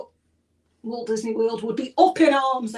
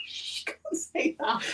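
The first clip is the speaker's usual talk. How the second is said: hushed, laughing whisper; 5 semitones higher, 6 dB quieter, slower than usual. Real, not acted. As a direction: hush it like a secret. Hushing a rude joke.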